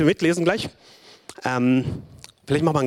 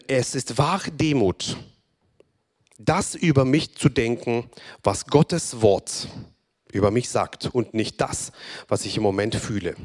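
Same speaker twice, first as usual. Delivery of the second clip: solemn reading; slower than usual. Acted. Reads proclamation slowly.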